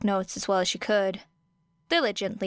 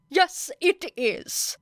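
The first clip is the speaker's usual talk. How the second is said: firm; 9 semitones higher, much slower than usual. A narrator's reading. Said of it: "said Ida firmly".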